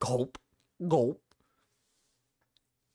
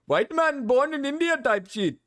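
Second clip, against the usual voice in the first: high-pitched, protesting mock Indian accent; put-on Indian accent; 6 semitones higher than usual. Streamer as white man born in India, mock Indian accent. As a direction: plead indignantly in a hammed-up Indian accent. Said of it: "I just have the accent".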